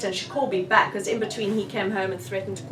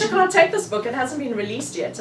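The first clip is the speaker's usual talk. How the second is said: a sudden high, louder protest that settles back down; mock scolding; 5 semitones higher, 4 dB louder than usual. Telling Bryn off for taking the unreleased book, mock-stern. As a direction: playfully stop a friend from pocketing the book.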